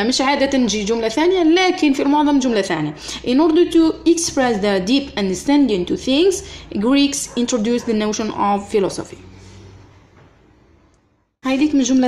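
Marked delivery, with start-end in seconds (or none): 3.2-9.2 slow, even dictation pace; teacher dictating to students. Acted. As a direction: read it out word by word for copying. Dictating the sentence to class.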